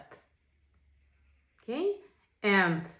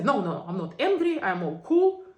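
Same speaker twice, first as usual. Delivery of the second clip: mock denial; 7 dB louder than usual. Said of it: "I either will go block".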